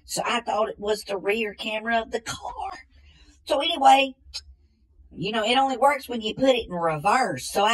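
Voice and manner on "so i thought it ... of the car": whispered admission; hushed, sheepish whisper. Acted. Man confessing a dumb idea, in a whisper. Confiding a silly mistake.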